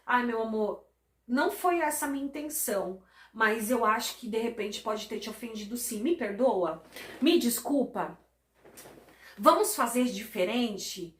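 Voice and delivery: calm the fight with softness; tender apology. Retold or imitated. Husband tenderly apologizing to his wife. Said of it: "você chega e fala assim".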